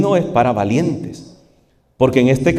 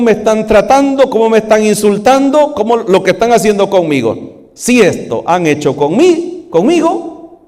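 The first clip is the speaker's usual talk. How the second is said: preaching shout; 10 semitones higher, 4 dB louder than usual. Acted. Preacher voicing Jesus's outrage.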